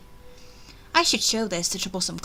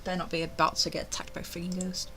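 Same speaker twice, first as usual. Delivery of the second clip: nervous whisper; 4 semitones lower, 8 dB quieter, faster than usual. Acted. Nervous aside about a ghost.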